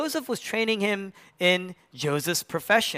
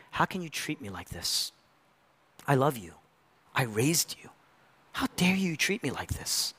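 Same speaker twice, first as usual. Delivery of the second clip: hurt complaint; 4 semitones lower, 6 dB quieter than usual. Acted. Mary's anguished complaint voiced.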